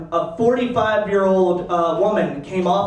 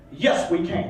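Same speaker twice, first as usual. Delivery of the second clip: whispered slogan; 4 semitones lower, 3 dB quieter than usual. Retold or imitated. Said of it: "found a way to say".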